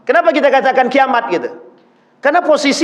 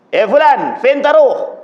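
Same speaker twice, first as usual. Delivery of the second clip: street Arab chatter; 3 semitones higher than usual. Retold or imitated. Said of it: "Itu bukan bahasa Arab resmi".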